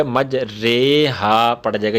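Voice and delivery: مج رے ہا said slowly with e, not ری; imala reading. Shown as a demonstration. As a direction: stretch out مج رے ہا with an e. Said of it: "تو مج ری نہیں پڑھا جائے گا".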